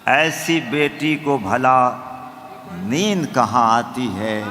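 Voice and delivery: measured, declaimed verse; stately nazm recitation. Acted. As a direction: recite to the audience with weight.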